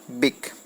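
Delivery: "बिक" cut off as its own chunk; teacher isolating "बिक" as the last syllable; syllable-split demo. Shown as a demonstration. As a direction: say "बिक" alone after a pause. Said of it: "ये word को तोड़ती है".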